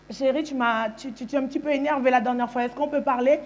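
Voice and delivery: careful, placating request; gentle, submissive. Retold or imitated. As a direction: play the meek, sweet partner. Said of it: "je voulais rester dans la douceur, dans la soumission".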